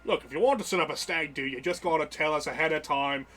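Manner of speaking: British publican explaining the rules; mild British character voice; lightly voiced British barkeep. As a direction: explain it as an obliging British host. Barkeep explains booking to patrons.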